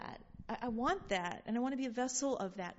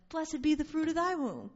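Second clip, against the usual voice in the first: louder, higher, joyous; joyful proclaimed blessing; 5 semitones higher, 4 dB louder than usual. Shown as a demonstration. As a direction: proclaim it with delight. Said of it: "I would like my greeting to be".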